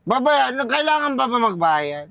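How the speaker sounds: put-on slow, slurred drunk question. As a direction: ask it drunk and confused. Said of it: "lasing na lasing kayo".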